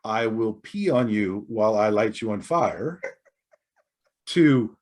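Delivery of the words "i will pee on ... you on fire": laughing quote. Retold or imitated. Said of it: "I went from".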